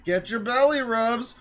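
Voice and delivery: high, excited pet-talk shout; playful belly-rub call. Pretend. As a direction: call it out rising to a loud squeal.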